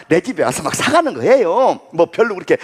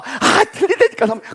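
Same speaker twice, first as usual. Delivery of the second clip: pleading seller; 4 semitones higher than usual. Retold or imitated.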